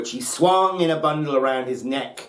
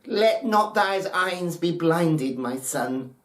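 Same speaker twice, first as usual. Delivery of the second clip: put-on higher, slow, tender old mother's plea; slow trembling old mother, a touch higher; trembling loving mother; 5 semitones higher, slower than usual. A narrator's reading. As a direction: beg him gently, a frail old mother full of love. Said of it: "The trembling mother's voice was full of unselfish love".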